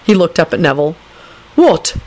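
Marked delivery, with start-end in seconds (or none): 1.5-1.9 high, amused query; satisfied. A narrator's reading. Neville answering Lupin, satisfied. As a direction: ask it with satisfaction. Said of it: "replied in a satisfied voice".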